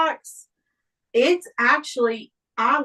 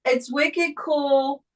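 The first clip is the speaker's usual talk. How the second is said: attempted Boston accent; 3 semitones higher, much slower than usual. Shown as a demonstration. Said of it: "I can't get that accent".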